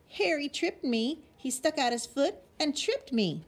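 high whiny tattling; wailing complaint. A narrator's reading. Fallen sister tattles to mom in a wail. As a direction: tell on your brother in a high wail. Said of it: "she wailed".

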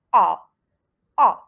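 "A" as a loud, falling open "ah"; model vowel A. Shown as a demonstration. Teacher repeating the first vowel, "A" as a firm open "ah". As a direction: punch out a lone, open "A". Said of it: "il est très simple".

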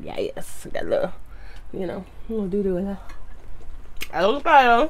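words muffled by food; talking while chewing. Real, not acted. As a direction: mouth partly full of shrimp. Seen 1: bites shrimp near 0, lips closed chewing, more shrimp at 2.8.

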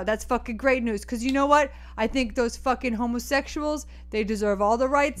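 sweary New Yorker; New York accent. Acted. New Yorker backing gay rights to the caller, New York accent. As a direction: talk like a blunt New Yorker. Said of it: "You're a real New Yorker".

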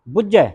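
ਬੁੱਝੈ with a firm doubled jh; said tightly. Shown as a demonstration. Teacher repeats it for a student, tight ਬੁੱਝੈ. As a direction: press hard on the middle of ਬੁੱਝੈ. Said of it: "ਕੱਸ ਕੇ ਬੋਲਣਾ ਹੈ".

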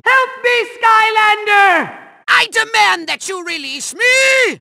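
high cry for rescue; frantic, imperious villain yell; panicked demand. Acted. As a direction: shout for help while staying bossy. Trapped villain calls for help.

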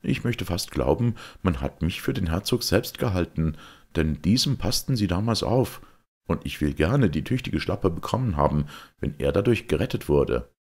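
a hint of eager gallantry; willing young knight. Georg gladly took blows for the duke, earnest.

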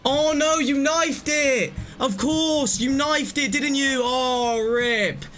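real dismay as the teammate messes up; exasperated outcry. Real, not acted. Teammate knifed it, sudden dismay.

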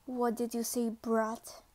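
low, lightly menacing corporal. Acted. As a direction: drop the voice in warning. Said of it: "He lowered his voice".

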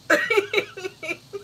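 high giggling burst; crazy laugh. Real, not acted. Imagining having a crazy laugh, high laughing burst. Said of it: "imagine if I had a crazy laugh".

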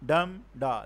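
"dum da" slowly, DUM stressed and da let fall; slow falling beat on "dum da"; trochaic beat. Shown as a demonstration. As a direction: tap out "dum da" as strong then weak. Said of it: "stressed syllable followed by unstressed".

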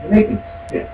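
hissed disgust; disgusted hiss at the press. Real, not acted. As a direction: spit it out under the breath.

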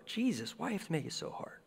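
mock whiny complaint. Preacher voices listener's complaint.

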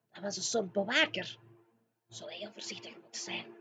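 fast, voiceless hushed warning; whispering. Acted. Sophie warning the giant to be careful, rushed whisper. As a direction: urge caution under your breath.

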